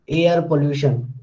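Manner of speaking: "air pollution" with the R pronounced; sounded R in air. Shown as a demonstration. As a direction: let the R be heard at the end of "air". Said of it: "If you say this, then there is no harm".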